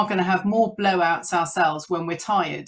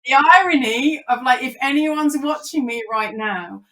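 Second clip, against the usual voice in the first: higher, louder mock despair at himself; rueful dad caught out; ironic self-mockery; 5 semitones higher, 5 dB louder than usual. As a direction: groan at your own hypocrisy. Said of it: "he's like".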